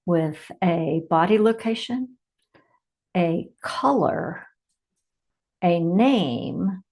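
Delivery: measured meditation delivery with long pauses; unhurried meditation leader, phrase by phrase; guided meditation. Acted. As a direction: guide listeners inward, leaving space after each phrase.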